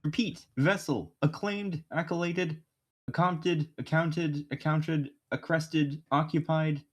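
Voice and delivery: alien transmission voice, halting; garbled alien message. Acted. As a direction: read it like a broken alien signal. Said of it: "begin attempting translation".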